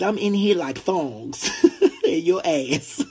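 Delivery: giggling while reading a comment; laughing through quote. Retold or imitated. Reading a fan's comment aloud, laughing. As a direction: read it out while cracking up.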